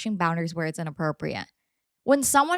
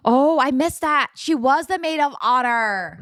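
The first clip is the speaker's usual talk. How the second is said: gasp, then louder, higher astonished words; slow, stretched-out realisation; real surprise; 4 semitones higher, 6 dB louder, slower than usual. Real, not acted. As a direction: caught off guard by the news, genuinely shocked. Realising a missed detail.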